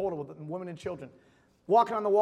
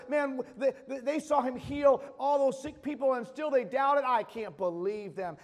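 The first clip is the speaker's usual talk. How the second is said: self-righteous judging; 3 semitones higher than usual. Retold or imitated. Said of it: "point our fingers at the Jews and say".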